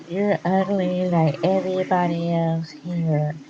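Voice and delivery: lightly put-on nasal voice, a bit slow; a hint of a nasal wrestler cutting a promo; mock Cody Rhodes. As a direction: poke fun at his nasal promo voice. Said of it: "That's how he sounds. He sounds nasal".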